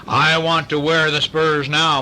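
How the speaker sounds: put-on pleading child voice; whiny plea for the spurs; begging. A narrator's reading. Child begging to wear the spurs, pleading. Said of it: "Marsh begged".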